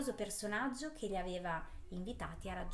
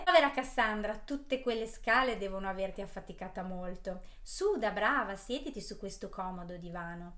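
sarcastic; 5 dB louder than usual. Acted. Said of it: "propose la maga Catherine sarcastica".

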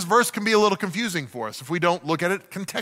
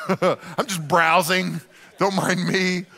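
careless browsing. Retold or imitated. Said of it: "You're like".

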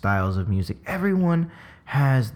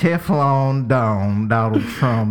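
put-on Southern accent; 4 dB louder, slower than usual. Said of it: "mess him from the South".

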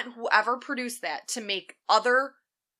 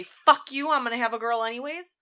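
defiant rebel wife; 2 semitones higher than usual. Retold or imitated. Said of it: "and they say".

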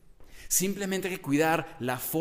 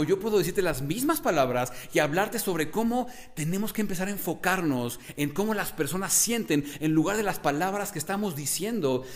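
lively, higher, varied delivery; expressive demo; 4 semitones higher than usual. Shown as a demonstration. Coach shows the same advice said expressively, lively. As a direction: sell it with energy and bounce. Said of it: "Y escuchas la diferencia".

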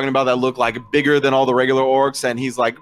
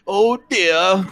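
higher-pitched worried "oh dear"; concerned; 6 semitones higher than usual. Acted. Orc facing another slap from the player, concerned. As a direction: play mild dismay, pitched up. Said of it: "looks very concerned".

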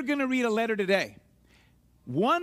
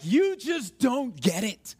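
slow, drawn-out exasperation; frustrated; slower than usual. Acted. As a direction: stretch out each word in frustration. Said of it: "were so frustrated with somebody".

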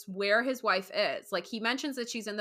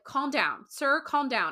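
mock dispatcher; 4 semitones higher, slower than usual. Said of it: "dispatchers always say".

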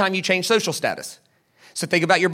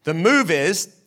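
mock Jewish inflection; 4 semitones lower, slower than usual. Shown as a demonstration. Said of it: "if you wanna sound Jewish".

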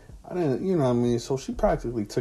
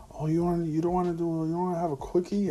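lightly mimicked flirty woman; 9 semitones higher, faster than usual. Woman pulling at his shorts, teasing him, lightly mimicked. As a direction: voice pitched higher, teasing and coaxing.

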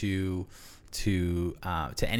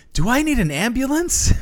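high, loud alarmed question; panicked question; 11 dB louder than usual. Retold or imitated. Tripping man wondering about help, high alarmed question. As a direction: ask it in sudden alarm. Panicked thought mid-trip.

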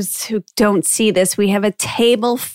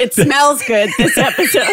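said through a laugh. Real, not acted. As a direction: laugh while saying it. Laughing over food.

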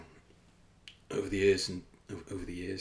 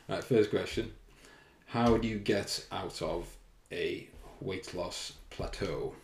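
put-on kids' TV presenter; slower than usual. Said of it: "I'm on Blue Peter or something".

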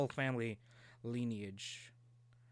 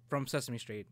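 normal talking voice

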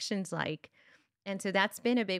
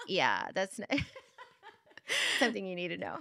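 put-on laughing teen. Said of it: "He's like".

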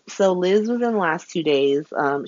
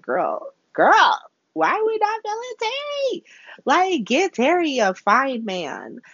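put-on high, squealing "girl", then slower; exasperated plea; 10 semitones higher than usual. Vlogger pleads with the show for Terry, high and squealing. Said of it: "I was like".

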